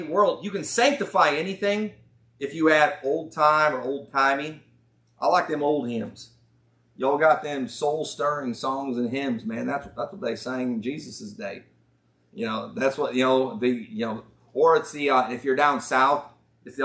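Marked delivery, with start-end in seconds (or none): 5.2-11.6 lightly mocking southern old-timer; southern accent. Old-timer praising the old hymns, southern accent. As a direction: play a hymn-loving southern churchgoer. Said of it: "I talk with a southern accent".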